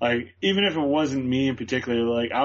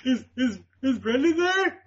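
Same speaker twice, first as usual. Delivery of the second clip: much higher and slow, halting and choked up; retold tearful phone call; 12 semitones higher, slower than usual. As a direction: stammer it out as if about to cry. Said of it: "I broke down in tears".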